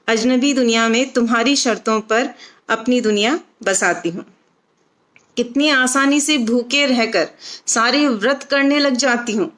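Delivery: measured, phrased verse reading with short pauses; expressive Hindi poem recitation; poetry recital. Acted. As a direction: recite it line by line, lifting each opening and letting the endings drop. Recites her own poem.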